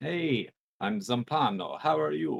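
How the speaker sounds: put-on very quiet, crappy, poor Spanish accent. Introducing the associate Zampano, the speaker voices him in a crappy Spanish accent. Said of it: "Crappy Spanish accent".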